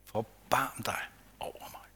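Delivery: slow hushed plea, not a real shout; crying out. Acted. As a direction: stretch out the call, then fall to a whisper. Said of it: "men han råber bare".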